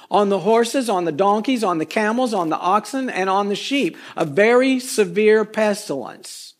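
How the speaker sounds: measured decree, drawing out the final words; God voice. Acted. Preacher reads God's plague on the livestock in a light God voice. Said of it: "I say it in a God voice".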